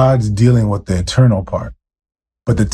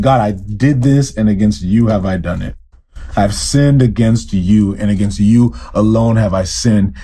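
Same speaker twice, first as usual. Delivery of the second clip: humble confession. Pretend. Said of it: "came before God and said".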